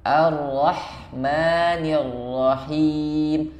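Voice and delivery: slow Ar-Rahmanir Rahim, lips back to resting position; correct lip position. Shown as a demonstration. Teacher showing students the correct lips. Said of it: "kembali ke posisi bibir semula".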